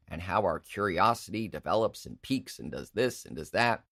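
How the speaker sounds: lightly voiced smug tech villain; mock villain monologue. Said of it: "And he goes".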